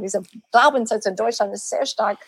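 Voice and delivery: ordinary talk, nothing marked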